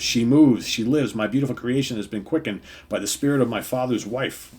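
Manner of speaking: a hint of villainous triumph; lightly voiced gloating Ultron. Reading Ultron's gloating speech.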